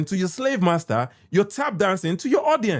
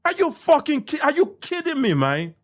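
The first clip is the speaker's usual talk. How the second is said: higher, exasperated disbelief; real incredulous outburst; exasperated outrage; 6 semitones higher than usual. Real, not acted. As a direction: cry out in disbelief at the critics. Outraged at critics.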